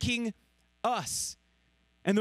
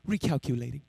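GPS voice; 7 semitones lower than usual. Retold or imitated. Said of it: "at that voice".

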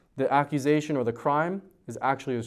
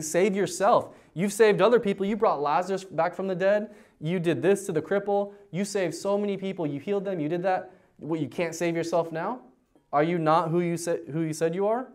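mock taunting; 5 semitones higher than usual. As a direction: voice the crowd jeering Jesus, lightly. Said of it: "they're taunting him".

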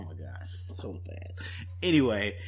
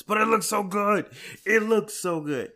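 higher and louder gush; excited; 11 semitones higher, 8 dB louder than usual. Real, not acted. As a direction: burst out with excitement. Excited reaction to trailer.

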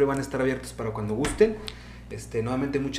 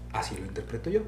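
whispered "Así lo interpreto yo", soft and unvoiced; 6 semitones lower, 8 dB quieter than usual. Real, not acted. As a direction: breathe the words as an aside to himself. Closing thought, repeated twice. ("Así lo interpreto yo" susurrado, sin voz)

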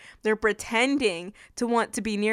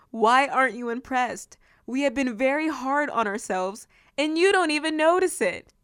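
indignant complaint to God; 4 semitones higher than usual. Acted. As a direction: voice rising to a high whiny pitch. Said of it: "They're talking to God".

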